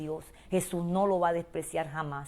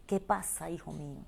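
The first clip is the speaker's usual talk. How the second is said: put-on soft, falling call to a child, much softer; tender divine voice; 6 dB quieter than usual. God calling the hurting listener, hushed and tender. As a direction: ask it gently like a loving parent.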